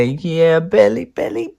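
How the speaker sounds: high, delighted sing-song; gleeful. Acted. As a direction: relish every bite. Gleeful eating.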